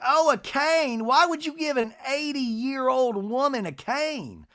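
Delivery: high, slow mock indignation; drawn-out, high-pitched hammed-up outrage; Miss Patricia. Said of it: "And Miss Patricia's like".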